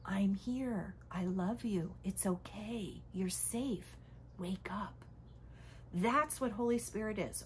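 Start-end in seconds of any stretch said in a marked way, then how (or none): 0.0-5.0 soft, hushed loving reassurance; gentle whisper. Retold or imitated. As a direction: murmur it like a voice in the ear. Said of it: "always whispering in our ear".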